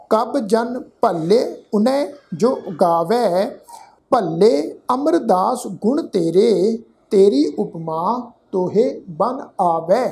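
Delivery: measured, deliberate chanting of the verse; slow scripture recitation. Acted. Teacher recites the savaiya to the sangat, slow and measured. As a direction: recite each word slowly and clearly.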